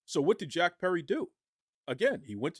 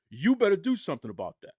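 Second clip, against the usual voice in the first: threatening demand; 3 semitones higher, 6 dB louder than usual. Retold or imitated. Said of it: "he went up to Tony Khan and said".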